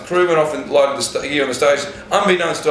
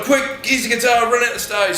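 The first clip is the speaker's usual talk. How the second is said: hurried instruction; 9 semitones higher than usual. Retold or imitated. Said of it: "and then it's like".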